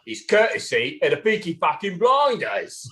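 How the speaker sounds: hint of a gangster brother; lightly put-on TV gangster impression; Arthur. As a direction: have a rough go at the Peaky Blinders brother. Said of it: "The older brother from Peaky Blinders".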